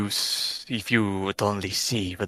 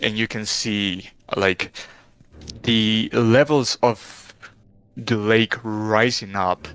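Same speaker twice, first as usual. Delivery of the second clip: game master narration. Acted. Game master describes a vision.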